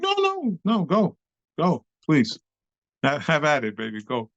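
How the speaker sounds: high squeaky begging to be skipped; panicked pleading. Retold or imitated. Dancer pleading with classmate to go first, squeaking in panic. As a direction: beg your way out in a high panic. Frightened pleading to next guy.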